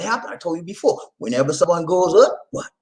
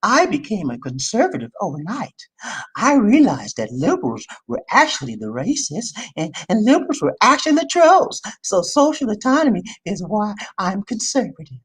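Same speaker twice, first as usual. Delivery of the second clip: a lightly voiced prim pundit, not far from own voice; mock her smug conversion claim; Candace Owens impression; 4 semitones higher than usual. Vlogger mocking the pundit's conversion, in a lightly put-on voice. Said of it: "I gotta do my Candace Owen voice".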